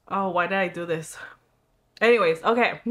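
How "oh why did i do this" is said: numb mouth. Real, not acted. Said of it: "and my mouth is numb".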